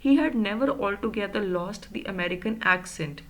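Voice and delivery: slow, measured read-aloud of the novel; slow textbook narration; story reading. A narrator's reading. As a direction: read the line out slowly for the class. Reads the story text aloud.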